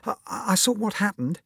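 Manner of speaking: put-on high, stammering small-boy voice; little Paul. Small schoolboy who witnessed bullying, high hesitant voice. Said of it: "said little Paul".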